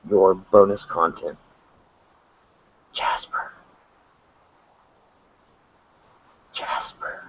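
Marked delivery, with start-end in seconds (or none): 2.9-7.2 breathy whispered command; whispering. Shown as a demonstration. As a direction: whisper right in your ear. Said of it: "whisper into the microphone".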